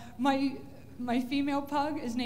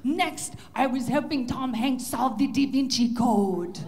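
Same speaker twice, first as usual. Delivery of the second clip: excited pug voice; 6 dB louder, slower than usual. Pretend. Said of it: "wake up and go running".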